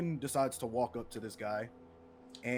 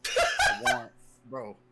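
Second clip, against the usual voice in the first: laughing through the words; cracking up mid-sentence; 13 dB louder, slower than usual. Real, not acted. Player cracking up at joke.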